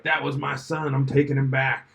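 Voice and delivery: a light, hammed-up New York accent as the angry shark; a bad New York accent, voicing the shark's threat; terrible New York accent. Podcaster voicing a movie shark in a bad New York accent. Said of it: "I don't know why he has that accent".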